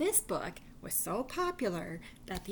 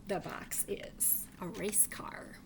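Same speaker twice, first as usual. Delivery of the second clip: whisper; 6 dB quieter, slower than usual. Acted. Reveals picture to kids.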